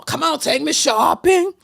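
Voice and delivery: lightly voiced demanding diva who wants shopping; sassy diva. Host mocks an older woman demanding a man with swag. Mocking a seventy-year-old actress dating.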